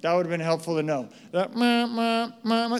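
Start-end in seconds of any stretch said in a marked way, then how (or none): 1.3-2.8 ringtone imitation. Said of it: "that's the ringtone".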